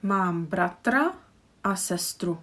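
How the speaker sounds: Mám bratra a sestru said slowly, word by word; slow model sentence. Shown as a demonstration. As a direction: spell it out slowly for learners. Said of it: "How would you pronounce this sentence".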